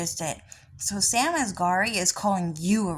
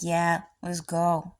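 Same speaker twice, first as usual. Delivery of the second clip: bored Cloud; slower than usual. Retold or imitated. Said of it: "Cloud was like".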